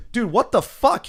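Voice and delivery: high, loud mock disbelief; retold outrage. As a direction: act out an exasperated boss, voice jumping up. Retold club quarrel, John reacts.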